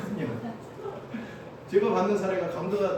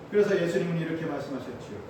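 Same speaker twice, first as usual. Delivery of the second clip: ordinary talk, nothing marked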